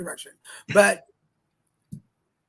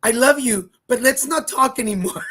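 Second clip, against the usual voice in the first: louder, teasing sign-off; mock affectionate farewell; 3 semitones higher, 6 dB louder than usual. Tourist tells the clerk to stop talking, mock affectionate farewell. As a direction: end the conversation sweetly but firmly. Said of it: "I go".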